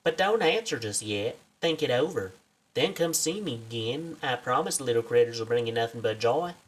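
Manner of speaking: friendly southern researcher making a pitch; lightly put-on Southern American accent. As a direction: coax them in a folksy southern accent. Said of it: "I gave her a southern accent".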